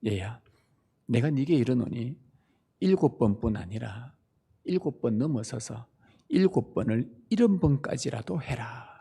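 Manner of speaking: soft and low, tender reply; gentle answer. Acted. Jesus gently answering Peter, soft and low. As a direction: answer like a patient teacher to a child.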